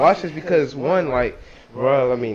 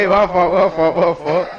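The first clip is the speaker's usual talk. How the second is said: laughing apology; 3 semitones higher, 5 dB louder than usual. Real, not acted. Laughs off misunderstanding.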